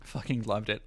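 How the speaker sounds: a hint of Alex Jones, jaw pushed. Imitating Alex Jones's jaw trick for chat. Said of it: "does this thing with his jaw".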